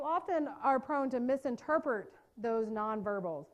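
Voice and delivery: misinterpret with a slight Southern American drawl on the vowels; southern accent. Real, not acted. Trainer catches her own Southern accent mid-lecture, mild Southern accent. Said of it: "Did you hear that southern accent?".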